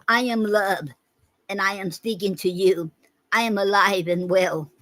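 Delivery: spoken recital before the song version; spoken poem. Shown as a demonstration. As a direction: read as spoken-word poetry, not sung. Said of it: "hear it first in the poetry form".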